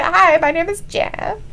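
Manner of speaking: put-on stilted comic Spanish accent; awkward mock Spanish accent. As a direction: sound awkward and constipated in a bad Spanish accent. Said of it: "He just sounds so awkward and constipated".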